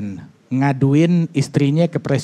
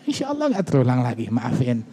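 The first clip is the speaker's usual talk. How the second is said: softer, hushed insya Allah nggak terulang lagi, maafin; quiet apology; 4 semitones lower, 7 dB quieter than usual. Shown as a demonstration. Preacher advising men to apologise to wives in secret, hushed. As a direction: murmur the apology so nobody else hears. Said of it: "mumpung nggak ada yang dengar".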